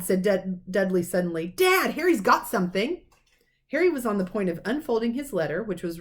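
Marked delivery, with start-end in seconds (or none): 1.5-3.0 higher, louder telltale call; a boy telling on his cousin to his father; tattling shout. A narrator's reading. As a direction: snitch on him eagerly. Dudley telling on Harry.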